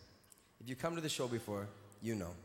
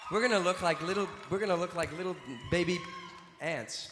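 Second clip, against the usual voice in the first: calling out; 4 semitones higher, 5 dB louder than usual. Real, not acted. Rallying the crowd for photo.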